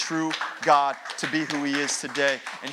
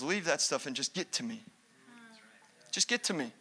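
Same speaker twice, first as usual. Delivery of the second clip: gentle voice of Jesus; 6 dB quieter than usual. Acted. Jesus voiced, soft invitation.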